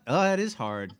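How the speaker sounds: ordinary talk, nothing marked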